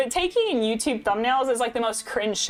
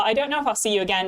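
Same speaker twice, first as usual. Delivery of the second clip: quick, put-on British accent; bad British accent; faster than usual. Streamer redoing the remark to Layla, bad British accent. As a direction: repeat it in a jokey bad British voice. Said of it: "throw some bad British accent at y'all".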